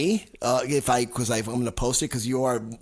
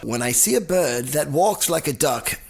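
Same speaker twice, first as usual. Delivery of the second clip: slow, lightly put-on English accent. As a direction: recite it slowly with an English accent. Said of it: "I'm doing an English accent".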